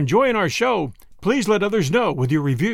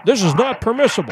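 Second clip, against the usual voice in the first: flustered protest, pitched higher; spluttering; 5 semitones higher, faster than usual. Acted. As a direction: sputter it out in indignant shock. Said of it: "Consul Linkford spluttered".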